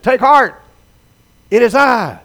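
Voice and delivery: calling out loud and high across the water. Acted. Jesus calls to the terrified men in the boat, loud call. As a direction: call out over the storm. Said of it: "He called out to them with a loud voice".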